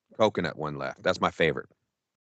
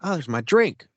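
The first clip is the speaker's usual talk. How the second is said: higher, pleased lift; oh, there it is, lifting at the end; delighted discovery; 5 semitones higher, 3 dB louder than usual. Retold or imitated. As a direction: spot it with glad surprise. Happy discovery in retold story.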